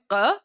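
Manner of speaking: "q" as a throaty Persian consonant; Persian letter sound. Shown as a demonstration. Explaining the last letter of doogh, "q" said as a Persian sound. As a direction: sound out "q" from the back of the throat, not as English. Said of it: "a letter that you actually can't pronounce in English".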